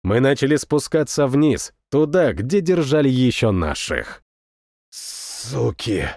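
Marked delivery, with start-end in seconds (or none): 4.9-6.1 low, soft rasped curse; hoarse muttered swear. A narrator's reading. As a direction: rasp the word out under your breath. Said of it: "прохрипел я".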